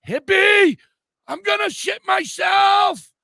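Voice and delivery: high, loud, slow panicked shriek of a desperate friend; Curly Kel panicking. Retold or imitated. Friend shrieking at Hippie by the tent, high panicked squeal. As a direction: squeal it like you're about to soil yourself. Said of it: "And she is like".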